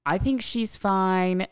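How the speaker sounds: a nosy neighbour reporting live to the dispatcher; gossipy live report. Retold or imitated. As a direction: narrate the fight like a thrilled spy. Breathless running commentary on fight.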